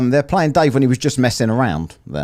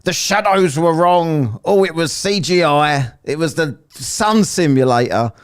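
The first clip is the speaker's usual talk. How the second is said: mocking flat earthers; 6 semitones higher than usual. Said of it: "And then it's like".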